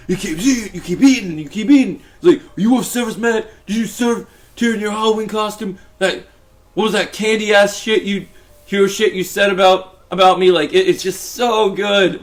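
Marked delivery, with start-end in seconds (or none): 0.1-2.0 Frank voice. Retold or imitated. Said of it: "when I'm doing this Frank voice". 2.4-10.5 Frank voice. Retold or imitated. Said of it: "when I'm doing this Frank voice".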